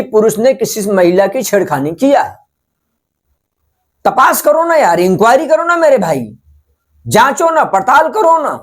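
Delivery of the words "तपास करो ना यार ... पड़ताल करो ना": higher-pitched, insistent appeal; exasperated plea, pitched up; exasperated urging. Pretend. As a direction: plead with them as with an erring brother. Urging absent policemen to investigate first.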